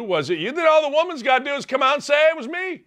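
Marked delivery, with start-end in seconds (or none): 2.3-2.8 soft confession. Pretend. Hypothetical woman confessing.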